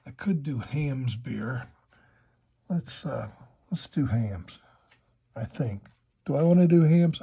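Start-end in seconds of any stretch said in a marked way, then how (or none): 6.3-7.2 muffled. Real, not acted. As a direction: hand over mouth. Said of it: "I gotta keep my hand from going over my mouth".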